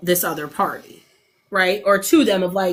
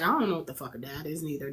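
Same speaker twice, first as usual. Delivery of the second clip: mock toddler voice; 6 semitones lower, 12 dB quieter, faster than usual. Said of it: "And Seven's like".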